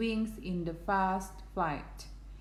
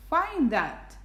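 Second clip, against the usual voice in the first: higher, louder storybook taunt; sneering; 7 semitones higher, 5 dB louder than usual. A narrator's reading. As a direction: throw it out as a mild sneering challenge. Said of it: "sneered the bird".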